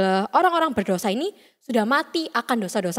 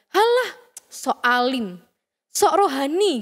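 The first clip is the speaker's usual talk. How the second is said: mocking jeer; slower than usual. Friend sneers at a classmate who refuses to cheat, mildly mocking. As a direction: jeer dismissively like a teasing friend. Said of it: "menerima ejek-ejekan itu".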